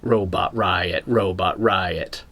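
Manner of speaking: slow, low robot chant. Pretend. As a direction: intone it slowly like a machine. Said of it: "Do I sound like a robot again?".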